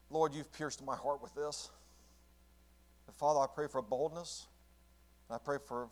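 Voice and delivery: pastor praying over the congregation; pastoral prayer. Acted. Leads closing prayer.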